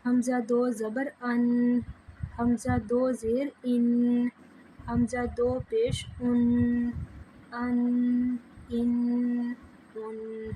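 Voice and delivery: slow chant with حمزہ simple like alif; plain hamza. Shown as a demonstration. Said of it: "حمزہ کو ہم سادہ پڑھتے ہیں". (حمزہ کو سادہ الف کی طرح پڑھنا)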